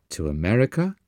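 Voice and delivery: as if he'd said the moon; incredulous echo. Acted. Boy echoing his teacher's plan, incredulous. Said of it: "in a tone that implied I had said to the moon".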